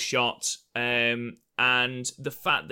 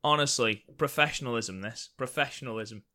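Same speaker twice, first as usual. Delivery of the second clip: mock pride. Real, not acted. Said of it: "What a segue".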